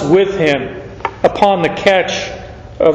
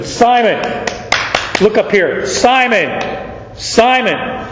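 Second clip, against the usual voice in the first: higher, calling the name; urgent call; 4 semitones higher than usual. Acted. Jesus calling the kneeling Simon to look up, urgent.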